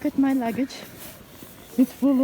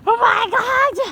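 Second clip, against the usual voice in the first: shocked exclamation; 12 semitones higher, 8 dB louder than usual. Real, not acted. Shocked by walking in snow.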